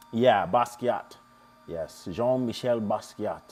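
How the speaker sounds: slow, hammed-up French accent on the name; a playful put-on French accent; fake French accent. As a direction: drawl Basquiat like a mock Frenchman. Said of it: "my fake French accent".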